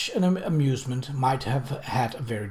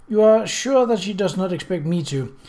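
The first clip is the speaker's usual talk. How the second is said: apprehensive; 7 semitones higher, 6 dB louder than usual. Acted. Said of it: "the apprehension came back into his voice".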